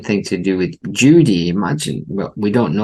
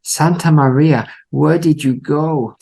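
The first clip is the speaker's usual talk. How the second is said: higher, lightly hammed-up anguished cry; imitating a desperate plea, pitched up; mock anguished shout; 7 semitones higher, slower than usual. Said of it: "he's shouting".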